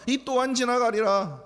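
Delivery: mock the slogan with scorn; mocking quote. Shown as a demonstration. Preacher challenging the congregation, mocking the saying. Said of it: "다윗이 그랬습니까?".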